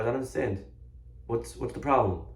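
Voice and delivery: soft, understated feigned innocence; mild puzzlement. Acted. Rabbi answers the yelling shopkeeper, softly puzzled.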